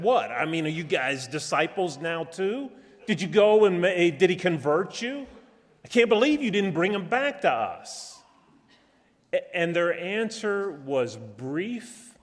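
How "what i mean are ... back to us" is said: ridiculing priests. Retold or imitated. Chief priests belittling the empty-handed guards, scornful scolding. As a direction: berate the guards with disbelief. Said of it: "began to ridicule them and belittle them".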